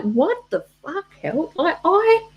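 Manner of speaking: mock rant at laptop. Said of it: "And I'm like".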